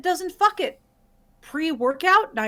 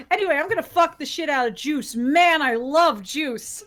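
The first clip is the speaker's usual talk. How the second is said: mock enthusiastic; 3 dB louder than usual. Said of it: "this is gonna be acting Chrissy".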